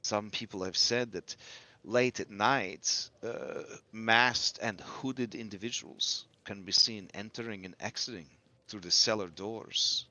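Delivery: lightly voiced rumour-sharer; measured informant. Informant telling players of a secretive book club, measured character voice.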